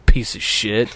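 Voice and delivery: low, flat delivery of the catchphrase; a lightly voiced old coworker with low pitch; his deadpan catchphrase. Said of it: "how he says it's fucking hilarious".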